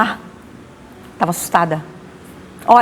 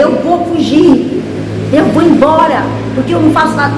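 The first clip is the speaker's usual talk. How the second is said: high, loud, slowed cry of wanting to run away; desperate angry shout; 8 semitones higher, 5 dB louder than usual. Retold or imitated. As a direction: yell it through frustration.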